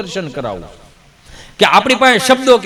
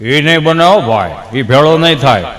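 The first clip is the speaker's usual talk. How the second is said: put-on old man voice; 6 semitones lower than usual. Old man refuses doctor.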